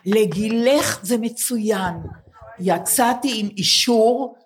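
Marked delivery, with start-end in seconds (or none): 0.1-1.9 לגילך leaned on, slowed; slow, pointed לגילך; repeated verdict. Retold or imitated. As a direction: draw out לגילך זה מצוין slowly, mocking the examiner. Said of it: "אמרו לי".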